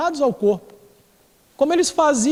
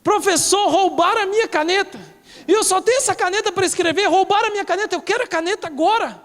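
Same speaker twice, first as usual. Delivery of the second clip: higher, a bit fast, mock indignant student; fussy student complaining; 5 semitones higher than usual. Preacher imitating a fussy student demanding her pen, mock indignant. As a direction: act out a whiny pupil demanding her pen. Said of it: "aquela aluna que faz aquele escândalo".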